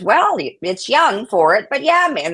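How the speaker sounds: mock granny holding forth; imitated grandmother. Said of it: "that's how she talked".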